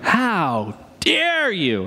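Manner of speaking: slow, drawn-out mock indignation; lightly voiced outraged preacher; indignant preacher. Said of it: "And he's like".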